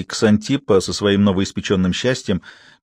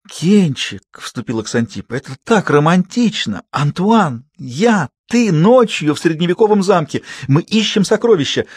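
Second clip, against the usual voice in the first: much higher, building excitement; romantic gushing; 8 semitones higher than usual. A narrator's reading. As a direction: gush like a thrilled girl. Ксантиппа gushes to Ken. (восторженно, всё выше и громче)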